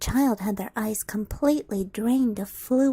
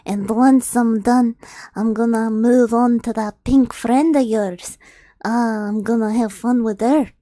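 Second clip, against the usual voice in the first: lightly voiced gloating ogre; villain taunting his victim, mildly voiced; a hint of menacing ogre. Ogre threatens her friend.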